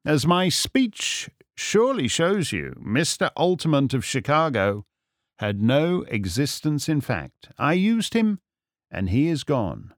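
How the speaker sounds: mildly theatrical sleuth; composed, amused Holmes. Acted. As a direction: explain the trick with measured ease. Holmes explains his disguise.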